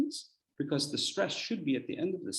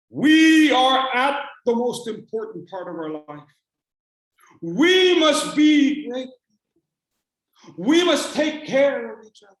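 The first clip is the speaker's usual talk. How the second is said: much higher and louder booming oratory, slowing down; grand orator; 11 semitones higher, 12 dB louder than usual. Retold or imitated. Imitating a speaker who starts sentences big, loud booming oratory. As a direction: boom it like a pompous speaker. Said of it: "he would say sentences like this".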